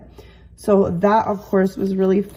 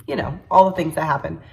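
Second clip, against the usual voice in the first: stuffy nose, a little congested; nasal congested voice. Real, not acted. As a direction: talk through a blocked nose. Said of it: "explain my slightly more nasally voice".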